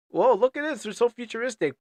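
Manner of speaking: gushing over shiny sci-fi; excited. Pretend. Voicing game's hype.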